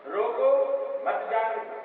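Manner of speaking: روکو drawn out slowly, a break, then مت جانے دو; pause after روکو. Shown as a demonstration. Teacher showing the meaning "stop him", slow روکو set apart by a pause. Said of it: "یہ روکنے کی بات کہہ رہا ہے".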